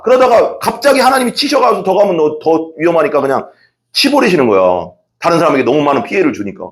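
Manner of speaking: normal talking voice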